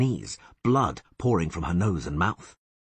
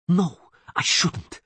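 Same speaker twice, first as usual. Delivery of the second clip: much higher, slow hissing threat; slow elf hiss; 12 semitones higher, 5 dB louder, much slower than usual. A narrator's reading. Elf woman hissing over the Witcher, higher and slow. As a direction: drag it out with venom. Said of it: "she hissed".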